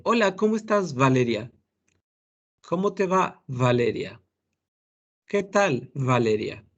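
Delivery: saludo alto y alegre, con la v de "Valeria" bien marcada; careful v in Valeria. Shown as a demonstration. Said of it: "¿Quién de ustedes pronuncia así?". (saludo con "Valeria" de v labiodental)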